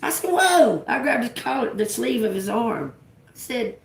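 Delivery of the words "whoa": much higher, louder re-enacted whoa; retold startled whoa. Driver stopping man grabbing at her, acted alarm. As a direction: act out a sudden halt. Retells stopping the hand once more.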